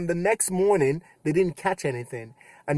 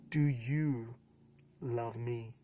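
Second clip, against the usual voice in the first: much softer, almost breaking off; hushed third asking; 4 semitones lower, 9 dB quieter, much slower than usual. Retold or imitated. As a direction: ask it barely above a breath. Jesus's third asking, very soft.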